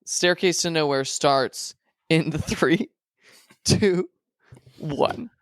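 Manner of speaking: hyped announcer with a drawn-out countdown. Pretend. Host counts listeners into the show, announcer voice. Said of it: "with my announcer voice".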